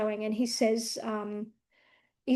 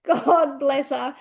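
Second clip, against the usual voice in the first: slow, heartfelt thanks; a slow, grateful God bless her; 4 dB louder, much slower than usual. Real, not acted. Speaking of the nurse friend, slow and grateful.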